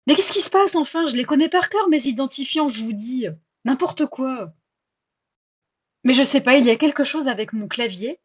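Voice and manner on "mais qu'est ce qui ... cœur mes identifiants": exasperated outburst. Real, not acted. Frustrated at her phone, exasperated outburst. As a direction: throw up your hands at the screen. Login keeps failing, exasperated.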